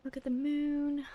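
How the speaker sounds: ordinary talk, nothing marked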